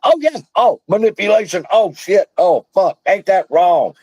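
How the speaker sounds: high, exaggerated gasps of shock; mocking fake outrage. Mocking people who pretend to read documents, high mock gasps. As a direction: parody someone skimming documents and faking alarm. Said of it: "they stop and go".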